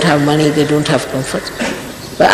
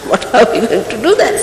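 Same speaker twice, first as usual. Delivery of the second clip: mock exhausted; 3 semitones higher than usual. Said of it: "here we are already exhausted".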